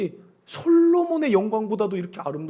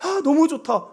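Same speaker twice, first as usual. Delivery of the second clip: admiring the sounds; 4 semitones higher than usual. Retold or imitated. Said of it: "감탄하는".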